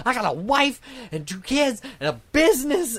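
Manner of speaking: high, odd voice quoting a film character; mock film killer calmly listing his family; quoting movie line. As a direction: pop up high for the movie quote. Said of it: "and he's like".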